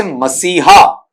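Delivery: "मसीहा" as ma-see-haa, each syllable distinct; Hindi pronunciation. Shown as a demonstration. Teacher giving students the Hindi word, "मसीहा" as ma-see-haa, Hindi pronunciation. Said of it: "इसे हिंदी में आप पढ़ते हैं".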